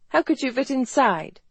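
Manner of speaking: high, doubting question; incredulous woman's voice, pitched high; skeptical. A narrator's reading. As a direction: ask as if you don't buy it. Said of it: "Garrett asked skeptically".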